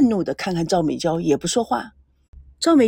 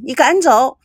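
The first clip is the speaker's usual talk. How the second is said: shouting; 4 semitones higher, 5 dB louder than usual. Acted. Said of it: "赵美娇大叫着".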